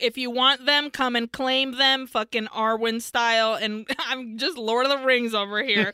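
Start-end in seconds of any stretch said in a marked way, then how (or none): 0.0-3.5 defiant call. Retold or imitated. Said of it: "Gregoria is like".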